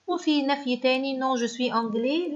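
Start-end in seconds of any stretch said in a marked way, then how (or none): 1.2-2.3 slow dictation. Shown as a demonstration. Teacher dictating French answer.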